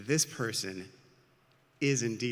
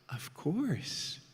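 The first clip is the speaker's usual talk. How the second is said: high, soft, sweet agreement; kind assent; 6 semitones higher, 4 dB quieter than usual. A narrator's reading. Kind sister agrees to feed hungry boy, sweetly. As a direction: lilt it upward, gladly giving.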